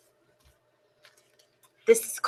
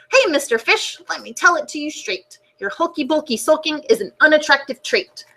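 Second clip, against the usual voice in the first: higher, straight-talking octopus; blunt octopus; 3 semitones higher than usual. Acted. Octopus giving the fish blunt advice, higher voice. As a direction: tell it to him plainly, lifted voice.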